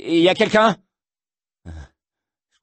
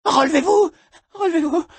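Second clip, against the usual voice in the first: high shouted command; 13 semitones higher, faster than usual. Acted. Ordering someone up.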